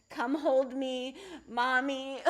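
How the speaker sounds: lightly voiced little kid begging for mommy; a hint of a small child wanting to be held; playing the upset five-year-old inside, half laughing; whiny five-year-old. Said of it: "I feel the five-year-old".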